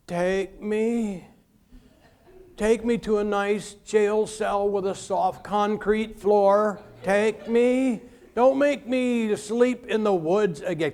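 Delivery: hammed-up beg, slow; mock pleading. Preacher mocking his friend's plan, hammed-up begging. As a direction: plead like a camper begging for jail.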